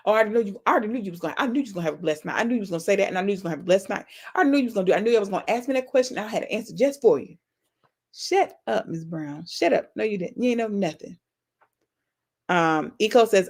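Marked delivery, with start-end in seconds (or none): 0.1-7.4 lightly put-on, fast-running character chatter; Miss Jenkins. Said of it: "in my, my Miss Jenkins voice". 8.1-11.2 Miss Jenkins. Acted. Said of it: "in my, my Miss Jenkins voice".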